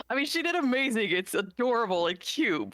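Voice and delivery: quick, high words coming out of a laugh. Real, not acted. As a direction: talk through leftover laughter. Still laughing about the portrait.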